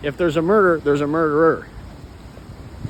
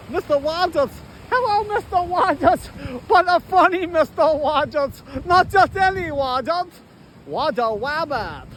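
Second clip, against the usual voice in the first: much higher, goofy put-on voice; greeting Mister Waddles in a much higher, goofy voice; silly cartoon voice; 7 semitones higher than usual. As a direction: play a giddy cartoon character.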